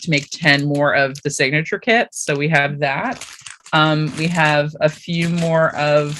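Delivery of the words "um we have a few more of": talking while crunching a snack; words over a crunchy bite; crunching chips. Real, not acted. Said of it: "sorry for the crunching".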